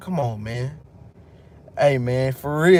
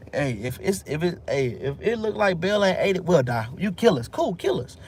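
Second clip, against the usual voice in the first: boastful priests; 4 semitones higher than usual. Retold or imitated. Priests voiced boasting to king.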